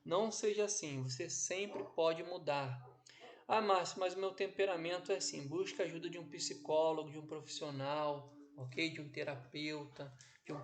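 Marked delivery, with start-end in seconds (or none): 3.5-5.5 loud, raised-pitch mock protest; protesting objection. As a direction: play someone pushing back with an excuse. Acts out student protesting to him.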